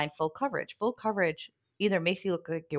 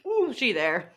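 reacting to hot sauce, nose running; sniffly from spicy heat; mouth burning from spicy food. Real, not acted. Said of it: "My nose is running".

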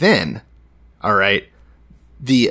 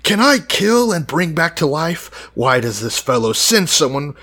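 retold scream; 5 semitones higher than usual. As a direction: cry out like an indignant king, hammed up. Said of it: "screams out".

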